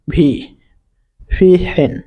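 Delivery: "ভি, ফি হেন" with a drawn-out ee; long ee sound. Shown as a demonstration. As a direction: hold the ee in "ভি" and "ফি", then a separate "হেন". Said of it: "হস্যই বা দীর্ঘের মতন উচ্চারণ হয়".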